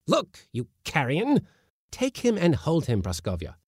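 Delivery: very high, exasperated scolding. A narrator's reading. Uncle scolding the kitten to look at the mouse, high. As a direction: berate the cowardly kitten.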